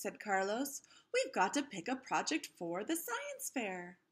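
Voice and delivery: lively storybook read-aloud voice; reading to children. A narrator's reading. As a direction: read it like story time for a class. Reads picture book aloud to kids.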